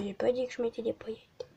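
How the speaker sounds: fast hushed whisper. Real, not acted. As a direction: whisper it to yourself. Whispered aside. (chuchoté)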